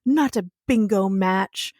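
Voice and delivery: mildly worked-up imitation of an outraged zealot; mock indignation. Colleague scolding Mark over the bingo card, mock indignant. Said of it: "he's all mad".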